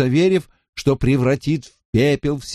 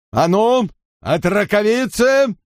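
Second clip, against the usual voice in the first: calling out; 10 semitones higher than usual. Acted. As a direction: summon the girls across the hall. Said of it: "крикнул он двум девчушкам". (весёлый окрик)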